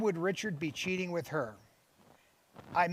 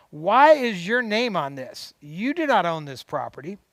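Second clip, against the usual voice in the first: indignant confrontation; 5 dB louder than usual. Retold or imitated. Confronting husband over the deed.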